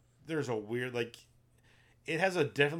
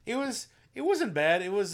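hesitant; 10 semitones higher, 8 dB louder than usual. Real, not acted. Hesitant verdict on movie.

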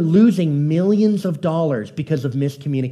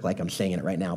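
pompous jerk; 10 semitones lower, 11 dB quieter than usual. Shown as a demonstration. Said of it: "like a pompous jerk".

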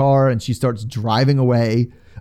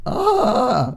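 frazzled high "aah"; mock exasperated "ah"; 8 semitones higher than usual. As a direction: let out a strung-out mock groan. Imitates the frazzled overwhelmed feeling.

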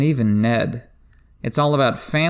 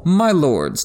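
grave maester; 6 semitones higher, 3 dB louder than usual. Retold or imitated.

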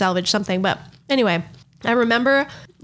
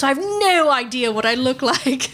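higher, hammed-up parody singer voice; a famous singer; 6 semitones higher than usual. Impressionist as singer laments shattered mirrors, higher parody voice. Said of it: "And he's like".

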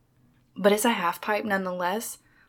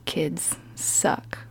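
whispered aside; 2 semitones lower than usual. Real, not acted. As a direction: whisper it as a sly joke. Jokey aside about kids.

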